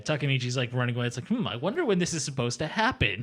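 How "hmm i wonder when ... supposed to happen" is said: higher, mock-pondering lilt; lightly hammed-up idle pondering; musing aloud. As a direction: wonder it aloud with exaggerated innocence. Jokey imagined thought of fleeing character.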